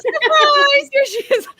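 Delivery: high, loud gleeful cry; beaming loud surprise call; excited surprise. Real, not acted. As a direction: shout surprise with delight. Echoing the guest's surprise.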